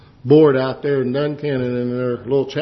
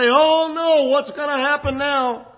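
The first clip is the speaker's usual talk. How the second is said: mock fearful worrier; 11 semitones higher than usual. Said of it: "cause you to fear and to doubt and say".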